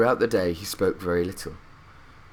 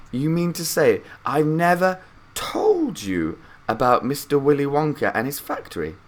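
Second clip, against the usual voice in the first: put-on higher old man's voice, astonished; Grandpa Joe surprised; 6 semitones higher than usual. A narrator's reading. Grandpa Joe amazed Charlie never heard the tale, higher old man's voice. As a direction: ask in disbelief like an old grandpa. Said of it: "And Grandpa Joe said".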